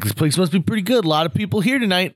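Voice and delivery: a hint of a man narrating his complaints aloud; talking into the world. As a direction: chatter at nobody in particular. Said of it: "He's kinda just talking into the world".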